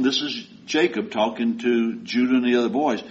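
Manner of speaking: ordinary talk, nothing marked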